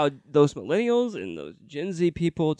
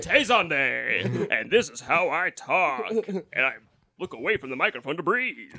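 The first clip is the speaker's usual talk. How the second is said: put-on singer's voice, lightly exaggerated. Mimicking the singer greeting a talk-show host, mock impression. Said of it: "my voice sounds like this".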